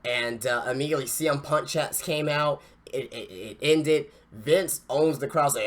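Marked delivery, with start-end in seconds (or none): none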